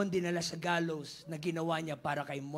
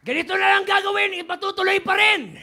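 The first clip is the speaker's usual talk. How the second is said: loud, higher royal fury; angry king's decree; 10 semitones higher, 19 dB louder than usual. Acted. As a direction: pronounce the sentence in a furious roar. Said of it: "Ang sabi ni Xerxes". (pasigaw na utos ng galit na hari)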